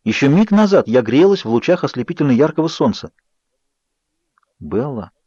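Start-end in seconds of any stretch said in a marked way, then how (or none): 4.6-5.1 soft low whisper of her name. A narrator's reading. Edward whispering to wake Bella, soft. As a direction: breathe her name quietly. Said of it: "прошептал Эдвард".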